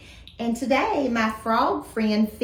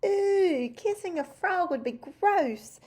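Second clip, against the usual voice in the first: imagined disgust; 7 semitones higher than usual. Acted. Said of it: "I bet you're thinking".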